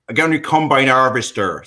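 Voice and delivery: put-on lightly done southern English country accent. Showing the hosts his family's southern English accent, lightly done. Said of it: "to give you an idea of that accent".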